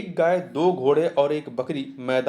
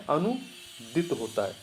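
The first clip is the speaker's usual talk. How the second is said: quiet slow repeat; 6 dB quieter, slower than usual. Shown as a demonstration. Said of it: "क्या होता है?".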